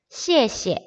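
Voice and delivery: 谢谢 with a light, toneless second syllable; second syllable neutral tone. Shown as a demonstration. Teacher shows learners how to say thanks, second syllable neutral. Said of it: "두 번째는 경성으로 바뀝니다".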